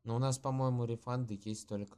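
nasal, blocked-nose voice; stuffy nose. Real, not acted. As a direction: talk through a stuffy nose. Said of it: "Я немного гнусавлю, у меня насморк".

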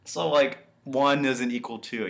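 charming villain reasoning it out; very charismatic. Retold or imitated. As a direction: reason lightly, as if it were only fair. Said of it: "he's still being, like, very charismatic".

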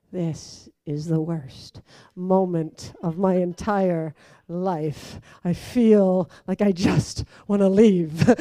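low, slow, muttered misery; a slow, sunk, despairing inner moan; miserable inner voice. Retold or imitated. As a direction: sink into it like you want to vanish. Miserable inner thought in mass.

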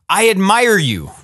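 high-pitched call without much volume; narrated shout, lifted in pitch; mild mock shout. A narrator's reading. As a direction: call out praise in storytelling style. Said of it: "Then he shouted".

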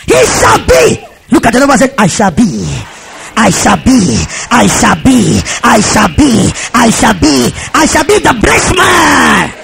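rallying preacher's refrain; fired-up declaration. Real, not acted. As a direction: lead the crowd line by line to a climax. Leads congregation in declaration.

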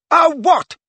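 high, loud furious demand; shouting. Acted. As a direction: shout it back in fury. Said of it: "shouted Ginny".

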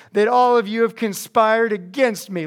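mildly hammed-up accusing whine; whining complaint. Preacher plays King Saul accusing his servants, mock whining. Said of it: "here he goes. Watch this".

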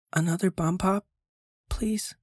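high, pleading whine; pitiful plea. A narrator's reading. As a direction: beg pitifully like a hungry boy. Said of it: "I asked pitifully".

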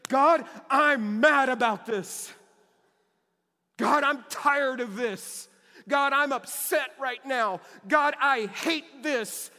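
a believer venting to God in prayer, loud and slow; raw honest lament. Shown as a demonstration. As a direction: pour out anger to God, slowly and loudly. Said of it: "A response in faith can look like this".

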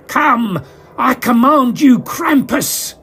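high, loud villainous command; manic cackling summons. Acted. Magician summoning a demon, cackling and commanding. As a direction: call up the demon with glee. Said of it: "he cackled".

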